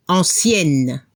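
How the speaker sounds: ancienne ending in a clear n; ancienne, let the n ring at the end; final N heard. Shown as a demonstration. Teacher correcting the quiz answer. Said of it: "se escucha la N al femenino".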